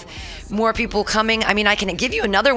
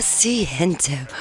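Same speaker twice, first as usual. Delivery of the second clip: seductive drawl; 2 semitones lower, slower than usual. Shown as a demonstration. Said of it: "seductress voice".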